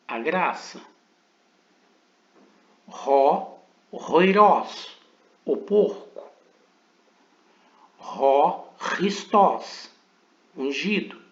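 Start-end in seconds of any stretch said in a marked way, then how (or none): 3.9-5.0 roirós with a harsh throat sound like K without a vowel; slow Greek pronunciation drill; guttural chi demo. Shown as a demonstration. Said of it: "como se fosse um K, mas sem a vogal e explosivo". 8.8-9.9 Christós starting with an explosive throat K sound; teacher modelling Greek; guttural Greek chi. Shown as a demonstration. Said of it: "é o som do ri".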